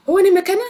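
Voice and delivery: "Oh, ni McKenna?" lifted high and rising at the end; question rise. Shown as a demonstration. Teacher to learners, asking in Swahili with a rising question. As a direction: ask "ni McKenna?" with a bright rising tune. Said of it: "maybe in a question form".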